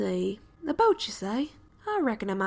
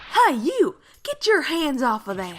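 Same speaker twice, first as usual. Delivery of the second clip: angry shout; 4 dB louder, slower than usual. Acted. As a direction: catch the intruders red-handed. Camper catches them meddling.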